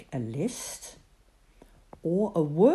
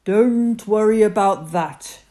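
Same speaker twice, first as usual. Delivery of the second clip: reassuring; 4 semitones higher, 10 dB louder than usual. Acted. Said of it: "God assured him".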